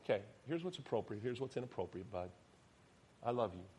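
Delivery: softly reassuring father; mild, tender correction to a son; gentle. Acted. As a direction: gently set a child straight. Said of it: "I gently tell him".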